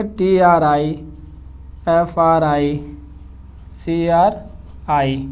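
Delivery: each letter said separately, with a pause between; spelling out letters. Shown as a demonstration. Teacher spells the words letter by letter for students, slowly. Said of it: "अगर आप इसको क्या पढ़ेंगे?".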